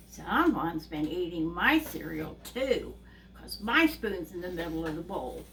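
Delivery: a hint of a put-out mother bear; Mama Bear. Mother bear finding her cereal touched too, mild complaint. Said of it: "Mama Bear looks at the cereal and goes".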